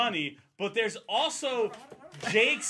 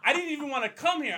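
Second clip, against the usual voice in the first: fast, higher, louder, half-laughing panic; frantic laughing rant; 5 semitones higher, 3 dB louder, faster than usual. Retold or imitated. Brother panicking outside the club about his wife, fast laughing rant. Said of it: "He goes".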